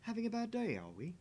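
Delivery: mocking. Mocking in-character taunt.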